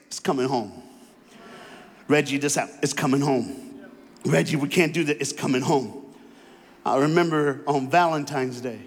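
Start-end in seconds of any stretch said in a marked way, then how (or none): 0.1-6.1 calm self-reassurance. Retold or imitated. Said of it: "it's my new phrase".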